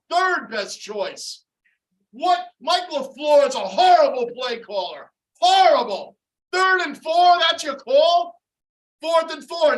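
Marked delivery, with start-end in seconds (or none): 2.1-9.8 louder, higher contemptuous yell; berating shout. Real, not acted. Fan blasting the coordinator's call, angry. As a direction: tear into the play caller.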